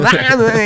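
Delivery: imitated groaning. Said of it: "it sounded like that".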